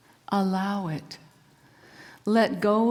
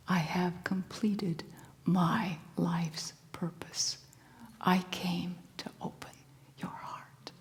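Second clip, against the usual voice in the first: soft, slow whispered farewell; gentle fish voice; 4 dB quieter than usual. Acted. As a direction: hush it like a blessing. Fish speaks its final words.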